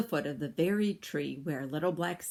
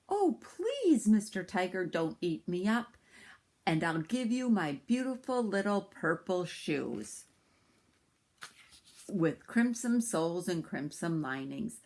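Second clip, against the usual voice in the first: put-on pleading boy. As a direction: beg the tiger not to eat you. Sambo begs the tiger.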